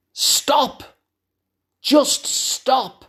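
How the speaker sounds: alarmed, urgent, fearful cry. Showing how we'd yell at them out of fear, screaming at the top of voice. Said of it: "scream at them at the top of our voice".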